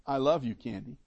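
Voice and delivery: tender I love you. Retold or imitated. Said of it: "when I tell her".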